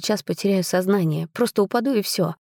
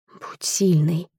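whispering to oneself; slower than usual. A narrator's reading. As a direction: breath-only whisper of self-encouragement. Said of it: "шептала я себе".

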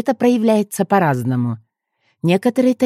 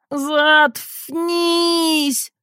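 high moaned shut up; groaning; 10 semitones higher than usual. A narrator's reading. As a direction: moan it out in pain. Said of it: "простонал Генчик". (простонал сквозь боль)

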